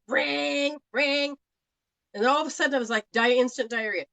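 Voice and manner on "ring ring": imitated phone ring. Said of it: "the phone went off".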